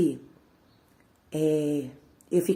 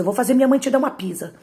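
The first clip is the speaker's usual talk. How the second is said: put-on sing-song the threat up higher like a bratty kid; higher taunting threat; 5 semitones higher, faster than usual. Little sister gloating at her sibling, higher and fast.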